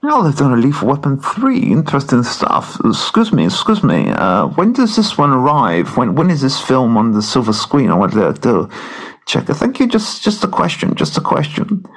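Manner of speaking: lightly lisped posh mutter; Chris Eubank impression. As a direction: mutter like a boxer in riding boots. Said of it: "That's not bad, that impression".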